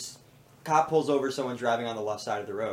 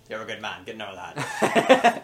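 put-on British accent; 3 semitones lower, 5 dB louder than usual. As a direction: laugh out a British telling-off. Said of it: "the British guy".

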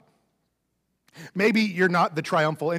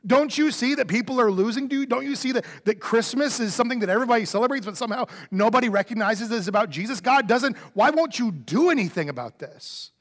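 mock angry plea; 4 semitones higher than usual. Believer getting madder at God online, in a frustrated raised plea. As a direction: plead with God, half-angry, voice pushed up. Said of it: "getting madder and madder".

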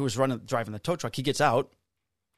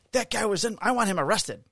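pitched up, whiny mock of the complainer; mock demanding woman; 9 semitones higher than usual. Cop mocks the woman demanding an arrest, whiny high mock voice. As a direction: imitate her shrill demand, hammed up.

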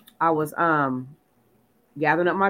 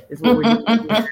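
higher, louder, bossy house rule; playful bossy insistence, raised and louder; 5 semitones higher, 6 dB louder, faster than usual. Retold or imitated. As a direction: lay down the law about the channel, higher and loud. Bossy stylist guarding the TV.

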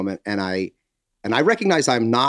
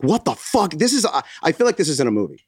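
fast, higher, disbelieving; disbelieving rant; 4 semitones higher, faster than usual. Retold or imitated. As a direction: rattle it off in disbelief. Retold disbelief.

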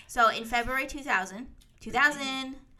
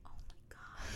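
breathy shocked whisper; 20 dB quieter than usual. Real, not acted. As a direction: gasp it out under breath. Reacting in shock.

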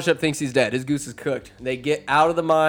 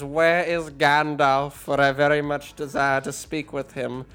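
a lofty elf asks for Gandalf; pretentious elf. Acted. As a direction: float it out grandly. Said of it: "so pretentious and just floating".

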